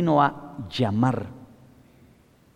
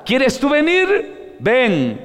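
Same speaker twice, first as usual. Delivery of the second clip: higher, slow, gentle "¿Quieres tú venir?"; gentle invitation; 8 semitones higher, much slower than usual. Shown as a demonstration. Preacher voicing Jesus inviting a listener, gently and slowly. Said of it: "el Señor decía".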